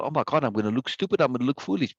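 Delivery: lightly acted worrier, words running together; a hint of self-conscious fretting; fretting narcissist. Narcissist dreading looking foolish over a bad sound, lightly acted fretting. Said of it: "for the narcissist".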